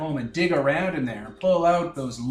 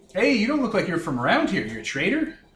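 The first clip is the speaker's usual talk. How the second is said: put-on, swooping New Orleans French accent; 4 semitones higher than usual. Voicing a Barovia local who questions a doctor, in a put-on accent. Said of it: "which is now this accent".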